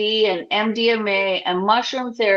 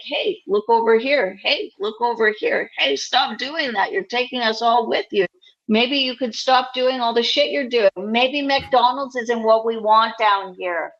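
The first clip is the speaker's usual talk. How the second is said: lightly voiced old Jewish lady; nagging like an old Jewish grandma; 2 semitones higher than usual. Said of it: "That was my old lady Jewish voice".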